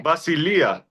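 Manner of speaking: Basilia said va-si-LI-a, high LI; stress on penultimate syllable. Shown as a demonstration. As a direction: punch the LI in Basilia, then fall. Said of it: "the stressor is on the penultimate syllable".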